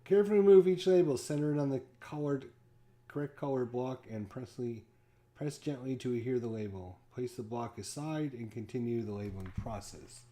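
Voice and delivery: brisk rulebook reading; instruction read. Acted. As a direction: rattle off the instructions like a manual.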